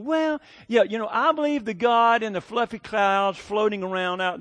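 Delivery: lightly mock their airy, hedging belief; mock vague believer. Mimics vague believers he talks to.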